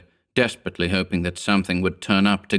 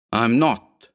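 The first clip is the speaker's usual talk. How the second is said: whining; 3 semitones higher than usual. Acted. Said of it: "whined the man".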